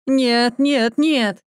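high, loud desperate denial; anguished no. A narrator's reading. Husband told his wife is gone, crying out in denial. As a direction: refuse to believe it, crying out.

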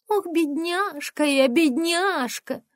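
high, slow, squeaky mimicry of a pitiful girl; mock the daughter in a whiny squeak. Mother mocking her daughter, in a squeaky whine. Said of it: "передразнила она песклявым голосом".

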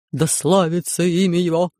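mild exclamation on имя; exclaiming. Acted. Gorbun hailing the ruler, mild exclamation. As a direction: lift "имя" a touch, understated cry. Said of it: "воскликнул Горбун".

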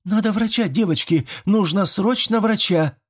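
very high urgent call; panicked girl. A narrator's reading. Panicked girl urges her friends to fetch a doctor, very high.

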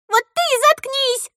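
very high snapping retort; shrill retort. A narrator's reading. Girl snapping at cousin, shrill. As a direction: fire it back.

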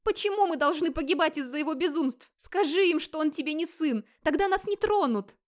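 a terrified wife begging; high fearful begging; frightened pleading. Acted.

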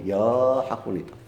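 slow, careful يا with a short open a, no l; correct pronunciation. Shown as a demonstration. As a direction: say يا plainly and slowly. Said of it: "قل". (نطق صحيح متأنٍ لـ يا)

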